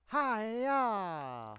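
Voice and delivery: long drawn-out "hi-ya"; play-fight kiai, stretched out; mock battle cry. Acting out an attack swing.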